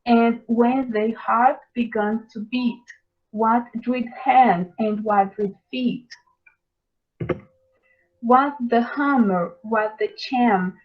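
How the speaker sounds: measured, solemn poetry reading, slow at the start; poem recital. Acted. Teacher reciting The Tyger to the class, solemn reading voice. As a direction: read Blake aloud like a recitation.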